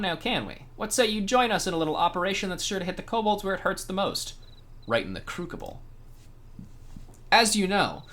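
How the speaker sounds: lightly voiced conspiratorial captain; brief the hero with a grin; sly pirate officer. Pirate officer briefs the hero on a bombing raid, lightly sly. Voicing NPC mission briefing.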